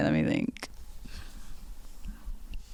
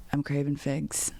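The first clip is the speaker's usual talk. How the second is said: imitating Shane again; 3 semitones lower, 8 dB quieter than usual. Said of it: "Let me do an impression".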